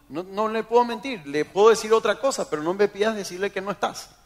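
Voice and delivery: protesta aguda y nerviosa; empleado suplicando, imitado. Retold or imitated. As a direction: imita a un empleado que se niega con apuro. Empleado se niega a mentir. (negativa apurada, en tono agudo)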